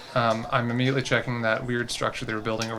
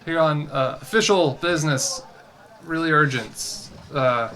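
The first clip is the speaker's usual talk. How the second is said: awkward public greeting; 4 semitones higher than usual. Acted. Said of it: "I just, I just like".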